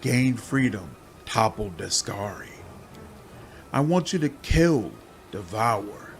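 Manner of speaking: a many-bodied demon whispering its bargain; hissing swarm demon. Acted. Swarm demon coaxing the hero to free her.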